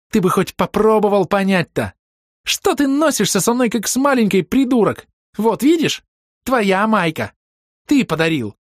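high, loud scornful tirade; furious girl mocking him; mocking angry rant. A narrator's reading. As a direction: sneer and rage at him.

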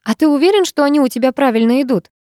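выше и громче, с подвохом; подколи его вопросом; ехидно. Acted. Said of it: "ехидно поинтересовалась". (ехидный вопрос, голос выше)

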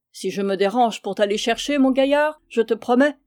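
mock-threatening a shipmate; a light grumbling threat, half laughing; half amused half furious. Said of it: "d'un ton moitié gai, moitié furieux".

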